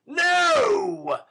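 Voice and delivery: loud, high shout; a furious shouted refusal; cried out. Acted. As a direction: fling the word out. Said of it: "cried Mister Sikes".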